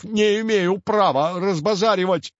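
frightened janitor protesting; mild desperate yell. A narrator's reading. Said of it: "в отчаянии завопил Степанов". (лёгкий отчаянный вопль)

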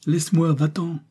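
the Scot rasps at Joe to let him go; rasping growl. A narrator's reading. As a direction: rasp it out with a dry throat. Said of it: "dit en râlant".

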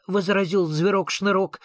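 ordinary delivery, nothing marked

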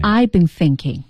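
I've been thinking 说得低调缓慢; low-key modest. Shown as a demonstration. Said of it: "很低调". (低调谦逊地说)

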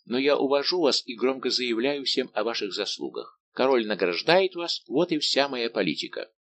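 lightly voiced persuasive D'Artagnan. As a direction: lightly play a friend winning someone over. Narrator voices D'Artagnan in dialogue. (слегка сыгранный убеждающий д'Артаньян)

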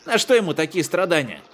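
pitying wail. Acted. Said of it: "продолжал вопить".

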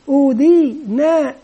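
slow blending. Shown as a demonstration. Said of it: "طفل يجمعها مرة واحدة يقول أودينا".

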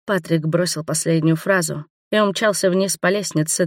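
plain reading voice

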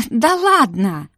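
high, drawn-out amused exclamation; laughing. A narrator's reading. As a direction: scoff merrily, pitch lifted and slow. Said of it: "Мира уже в голос смеялась". (смешливо, нараспев)

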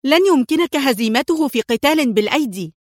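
high, sharp exasperated warning; annoyed cry. A narrator's reading. Sonia to Antoine about fighting Adham, a high exasperated warning. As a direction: warn him with irritation. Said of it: "صاحت في حنق".

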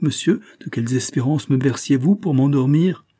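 indignant outburst. Acted. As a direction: accuse him, feeling betrayed. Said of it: "le transportèrent de colère".

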